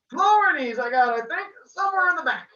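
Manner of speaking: put-on high, loud accented shopkeeper; Italian accent, bookseller answering; thick accent. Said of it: "His accent was thick".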